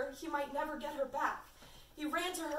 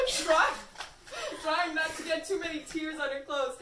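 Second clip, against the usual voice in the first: reading through giggles; laughing while reading; 3 semitones higher, 4 dB louder than usual. Real, not acted. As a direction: try to read while cracking up.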